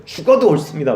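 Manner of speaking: acting out Jonah's stubborn temper; mildly heated protest; mock temper. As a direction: insist crossly, leaning hard on 죽어도. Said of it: "요나가 막 성질을 내니까".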